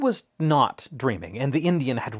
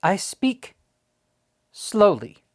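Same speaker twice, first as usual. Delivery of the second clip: grunted; 7 semitones higher, 3 dB louder, slower than usual. A narrator's reading. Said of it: "grunted the miniature Indian".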